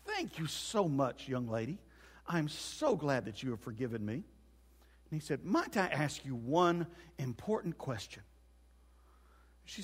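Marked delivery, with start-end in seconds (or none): 0.0-4.1 soft, overly polite parrot thanks; grateful parrot. Acted. Parrot thanking the woman who forgave it, meekly grateful. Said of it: "the parrot said". 5.4-8.2 slow, deferential parrot request; polite parrot. Acted. Parrot asking the woman for permission, slow and deferential. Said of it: "the parrot said".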